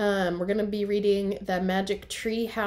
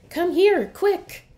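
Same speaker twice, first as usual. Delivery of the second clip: much higher, louder urgent shout; excited shout; 10 semitones higher, 9 dB louder, slower than usual. Acted. Annie calling Jack to her find, excited shout. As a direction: shout him over, thrilled by a discovery. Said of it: "Annie shouted".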